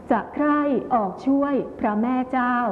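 measured verse phrasing, จะใคร่ / ออกช่วย / พระแม่เจ้า; grouped two-two-three. Shown as a demonstration. Teacher showing pupils verse rhythm, จะใคร่ออกช่วยพระแม่เจ้า split two-two-three. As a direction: pause after จะใคร่ and ออกช่วย, then พระแม่เจ้า together. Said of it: "แบบสองสองสามนะคะ".

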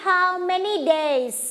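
How many days spoken slowly for the class to copy; slow model phrase. Shown as a demonstration. Teacher models question for class to repeat, slowly. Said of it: "ฟังก่อนนะจ๊ะ".

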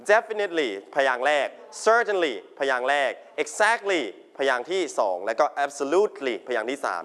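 Definitely and Certainly stressed on the first syllable, Exactly on the second, Absolutely on the third. Shown as a demonstration. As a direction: spell out the stressed syllable of each word. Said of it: "เน้นนะครับ".

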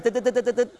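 string of quick vocal tick sounds; imitated bat clicks. Shown as a demonstration. Guide showing kids the bat's hunting call, rapid mock ticks. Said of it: "มันจะตึ๊ดตึ๊ด".

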